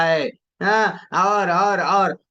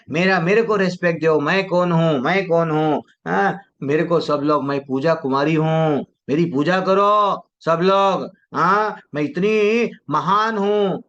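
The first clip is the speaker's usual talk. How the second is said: mock arrogance. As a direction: play the self-important devotee, hammed-up. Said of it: "ये भाव नहीं रहना". (घमंडी अंदाज़ की नकल, धीमे और ऐंठ के साथ)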